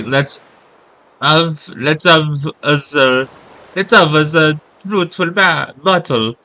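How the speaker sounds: halting, experimental Italian accent. Shown as a demonstration. Streamer practising a battle line in an Italian accent. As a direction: sound out an Italian accent slowly. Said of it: "an Italian would say".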